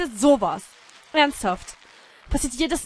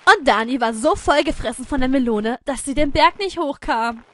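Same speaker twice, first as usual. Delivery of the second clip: story narration; 2 semitones higher, 4 dB louder than usual. Pretend.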